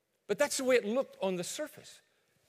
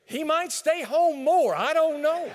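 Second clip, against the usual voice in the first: laughing punchline; 8 semitones higher, 10 dB louder, slower than usual. Real, not acted.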